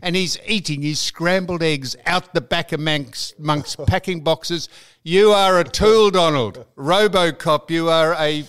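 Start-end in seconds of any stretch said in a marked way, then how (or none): 5.0-8.4 louder, teasing abuse at a mate; mock telling-off. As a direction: rib him hard, half joking. Mock-insulting co-host on air.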